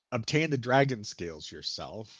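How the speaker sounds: DRAGON picked out with emphasis; stress on DRAGON. Acted. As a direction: lean on the word dragon. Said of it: "he puts an emphasis on the word dragon".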